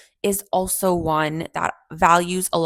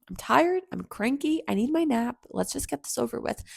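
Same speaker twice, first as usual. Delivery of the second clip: cranky impatience; 4 semitones higher, 4 dB quieter than usual. Retold or imitated. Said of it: "reaching the end of my patience".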